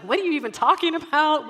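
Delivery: put-on high, loud indignant kid; retold yelling. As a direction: imitate a child yelling back at mom. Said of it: "he's yelling".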